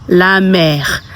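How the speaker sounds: "la mère" as "lah mair"; "la mère" with an open "eh" and barely any r; French pronunciation. Shown as a demonstration. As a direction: teach "la mère" as a French word. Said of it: "So mother is".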